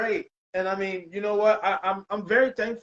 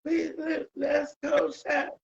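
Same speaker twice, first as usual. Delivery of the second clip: high-pitched pretend cheer squad voice; mock cheerleader; 10 semitones higher, slower than usual. Joking along about pom-pom cheering for the chef, mock cheerleader. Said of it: "cheering you on the entire way".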